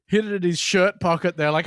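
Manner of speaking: ordinary talk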